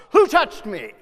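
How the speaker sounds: loud, sharp accusing question; accusing demand. Shown as a demonstration. How Jesus did not say it, loud and accusing. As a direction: bark it like an accusation. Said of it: "It's not".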